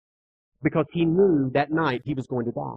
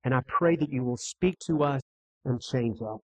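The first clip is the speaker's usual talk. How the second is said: lower, softer prayer voice, falling away to the Amen; 4 semitones lower, 5 dB quieter than usual. Real, not acted. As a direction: pray quietly and reverently to close. Closes an opening prayer.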